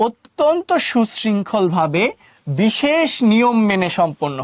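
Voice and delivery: slow, measured teacher reading; deliberate dictation pace with pauses between phrases; definition read-out. Real, not acted. Reads definition out to class.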